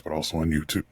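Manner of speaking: words through a burp; burping while talking. Real, not acted. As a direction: talk with a burp rising. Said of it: "I am burping and talking".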